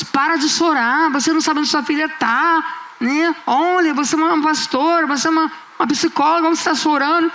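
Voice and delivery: lightly voiced chiding of a crying pastor; scolding churchgoers. People at the altar telling her to stop crying, mildly scolding.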